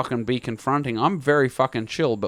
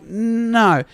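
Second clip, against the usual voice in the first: first, more restrained no; firm refusal; 5 semitones higher than usual. Retold or imitated. Tenant turning down Monday's return visit, restrained refusal. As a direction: refuse firmly without shouting.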